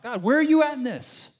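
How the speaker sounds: high, loud panicky cry; mock panic. Israelites with no water crying out, high mock panic. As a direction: sound the alarm, mock-frantic.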